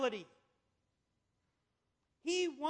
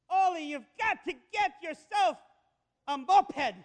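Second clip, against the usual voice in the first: voicing Olga; 4 semitones higher, 8 dB louder than usual. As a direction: urge him on like a pushy church lady, a bit higher. Woman urging Oli in joke.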